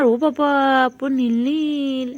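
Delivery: amazed gasp, then slow and drawn out; surprised. Real, not acted. Owner amazed at her pet's blue colour, awed. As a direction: marvel at it out loud.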